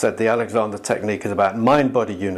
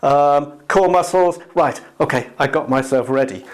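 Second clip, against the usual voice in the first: higher voice ticking off core muscles; busy checking the body before the catch; mock body-worker; 4 semitones higher than usual. Teacher mocks a body-work student preparing to catch, higher and fussy. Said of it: "we do some body work and we go".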